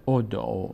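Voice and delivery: «ادعو» with an initial short o; ضمه روی الف. Shown as a demonstration. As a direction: read «ادعو» starting on a clear short o. («ادعو» با ضمه در آغاز)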